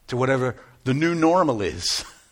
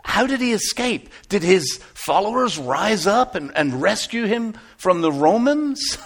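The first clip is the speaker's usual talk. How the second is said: raised, puzzled voice; bewildered questions, pitched up; confused questioning; 4 semitones higher, 4 dB louder than usual. Acted. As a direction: puzzle it out aloud. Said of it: "And I was confused".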